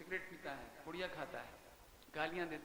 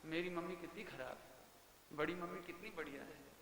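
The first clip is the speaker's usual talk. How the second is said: put-on child's thought; 4 semitones lower, 7 dB quieter than usual. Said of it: "सोचता है मन ही मन".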